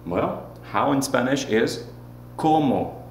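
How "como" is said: "como" with a drawn-out first o, higher; lengthened first o. Shown as a demonstration. Teacher modeling for repetition, first o of "como" held longer. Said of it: "make it last a little bit longer".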